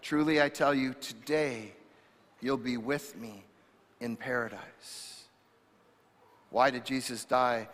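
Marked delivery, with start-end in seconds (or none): 0.0-5.1 gentle promise. Acted. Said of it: "Jesus says".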